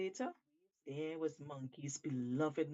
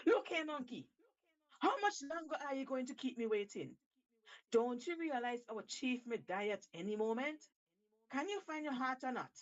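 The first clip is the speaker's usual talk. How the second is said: impatient; 6 semitones higher, faster than usual. Acted. Impatient shark calls to Monkey.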